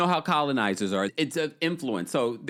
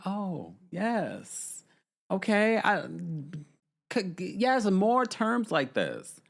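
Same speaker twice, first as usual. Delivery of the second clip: higher, drawn-out Downton Abbey English; mock upper-class English accent; 5 semitones higher, much slower than usual. Savouring that type of English, in a mock upper-class accent. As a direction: relish it like a pretend aristocrat. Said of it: "I love that type of English".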